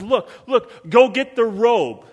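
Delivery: lightly voiced father giving orders; commanding father. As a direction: call to the servant with urgent joy. Father commands servant joyfully.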